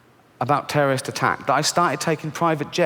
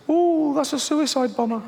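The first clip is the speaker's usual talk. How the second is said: high, slow, timid voice; squeaky paranoid whisper-voice; fearful inner voice; 11 semitones higher, slower than usual. Acted. Inner voice of fear, acted.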